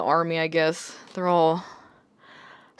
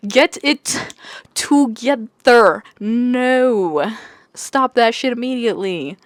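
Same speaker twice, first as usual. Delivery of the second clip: mock scolding; 4 semitones higher, much slower than usual. Scolding the main character.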